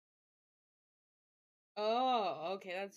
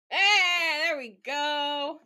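loud, high cheer as it finally works; triumphant exclaim; 6 semitones higher, 13 dB louder, much slower than usual. Real, not acted. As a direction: roep het uit als het lukt.

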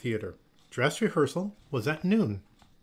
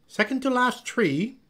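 high, loud teacher's call; single out a pupil from across the studio; 11 semitones higher, 5 dB louder than usual. A narrator's reading. Miss Olga correcting Noelle at rehearsal, sharp call-out.

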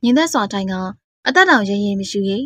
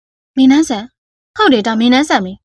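slow, amazed recognition; stunned, drawn-out realisation; astonished; 3 dB louder, slower than usual. Acted. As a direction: say the name slowly, in amazement. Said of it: "အံ့ဩတကြီးနဲ့".

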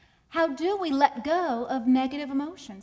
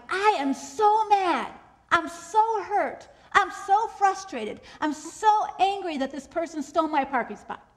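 over-identified anger; 4 semitones higher, 4 dB louder than usual. Acted. People venting their feelings to themselves, exaggerated anger. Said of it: "We say things like".

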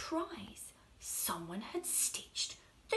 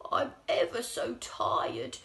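tired whisper; 4 dB louder than usual. Acted. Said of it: "he said to the cat".

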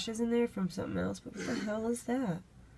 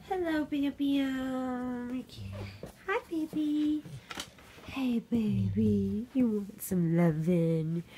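doting; 3 semitones higher than usual. Real, not acted. Cooing to her dog.

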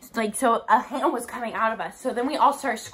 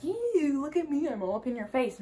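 mocking mimicry; 3 semitones higher, 5 dB quieter than usual. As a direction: mimic an in-your-face haunted house actor. Mimicking the cop character.

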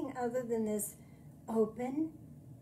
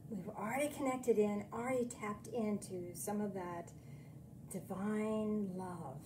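guided meditation. Acted.

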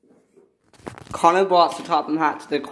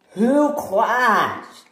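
high, raised cry; annoyed demand; 7 semitones higher, 4 dB louder than usual. Acted. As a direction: demand to know who is to blame. Annoyed demand after a crash.

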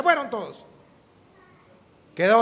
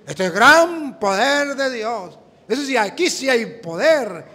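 slow, louder mock reverence; slow, louder mocking awe; mock awed crowd; 2 semitones higher, 5 dB louder, slower than usual. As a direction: drag it out like a gullible believer. Mocking what the crowd says.

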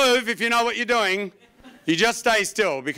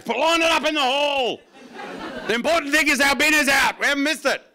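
put-on high, loud fussy old-timer voice; fussy old coot; 7 semitones higher, 3 dB louder than usual. Old coot insisting the bin is out. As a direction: insist like a fretting pensioner. Old coots defending early bins.

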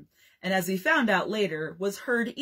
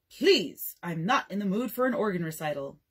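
mock offended. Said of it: "Dad scolds a child".

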